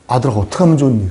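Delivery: low, hurried fatherly concern; pitying father. Acted. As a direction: sound worried for your son, not cross. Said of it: "불쌍히 여김으로 바뀌죠".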